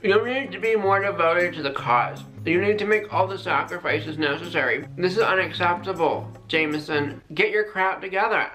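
stern coach. Acted. Scolding sim in stern voice.

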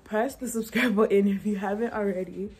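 plain voice, breaking into laughter; laughing. Pretend. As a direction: laugh through the line. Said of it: "Why do I put the African accent on me?".

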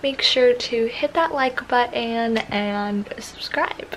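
talking around a retainer; wearing a retainer. Real, not acted. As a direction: speak with a retainer in. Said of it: "I sound, like, a little weird just 'cause I have my retainer".

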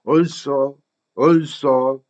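"also" with the vowels run together; linked sounds. Shown as a demonstration. Teacher models for Korean learners, "also" smoothly linked. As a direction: say "also" as one joined word. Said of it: "이 정도 이어집니다".

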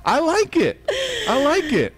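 high, thrilled and beaming; excited praise. Real, not acted. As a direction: cheer her on, delighted. Praising the announcer voice.

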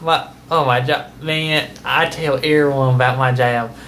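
Uncle Jim Bob voice. Acted. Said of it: "my Uncle Jim Bob".

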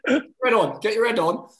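self pep talk. Retold or imitated. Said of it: "and I'm like".

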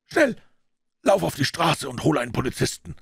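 high, quavering urgent order; shaken, high-pitched urgency; trembling voice. A narrator's reading. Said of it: "sagte er mit bebender Stimme".

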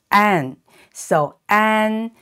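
an like the English word an. Shown as a demonstration. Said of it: "pronounced exactly like the English word".

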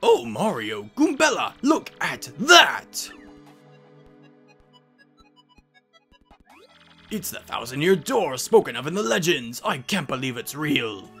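lightly voiced old-school professor, swooping pitch; excited scholar with big rises and falls; awestruck professor. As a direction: marvel theatrically at a legendary discovery. Voices the professor marvelling at door.

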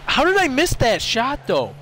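can't believe you missed; frustrated gamer disbelief; disbelieving whine. Real, not acted. Missed easy shot.

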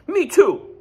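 very high and loud; honking Goose. Acted. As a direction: honk it like a goose. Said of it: "honked Goose".

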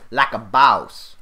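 triumphant shout. Acted. Triumphant catchphrase after kill.

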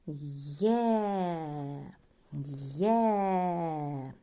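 «Є» said loud and distinct as a model sound; teacher sounding out «Є» for pupils; loud clear Є. Shown as a demonstration. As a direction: call out «Є» loudly and clearly. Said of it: "Вона вимовляється голосно, виразно".

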